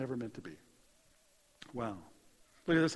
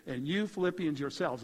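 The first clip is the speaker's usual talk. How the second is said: "you Philippians yourselves", each word firmly placed; emphatic address. Retold or imitated. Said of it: "It's a very emphatic way to write".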